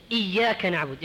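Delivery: إياك with a single light ي, not doubled; light, undoubled ya in إياك; ya without shadda. Shown as a demonstration. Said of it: "ولا يشدد".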